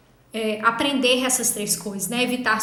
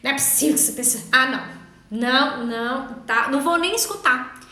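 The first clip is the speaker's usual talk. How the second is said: exasperated inner voice; faster than usual. Retold or imitated. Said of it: "você já tá assim".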